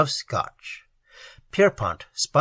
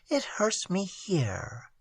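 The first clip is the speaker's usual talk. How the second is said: tearful; 4 semitones higher, 10 dB quieter, slower than usual. A narrator's reading. Tearful girl describing pain.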